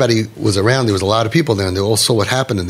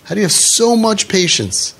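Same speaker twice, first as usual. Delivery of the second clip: amazed questioning; 9 semitones higher than usual. Retold or imitated. Grandson asking his grandfather about his patience, high-pitched amazement. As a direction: act out a grandson marvelling, stretching the words.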